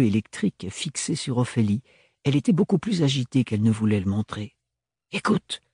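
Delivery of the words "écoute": spat through teeth. A narrator's reading. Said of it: "cracha-t-elle entre ses dents".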